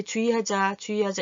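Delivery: 주의하자 run together as ju-i-ha-ja; spoken pronunciation. Shown as a demonstration. Teacher shows how it sounds, eased ju-i. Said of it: "이렇게 소리가 나지요".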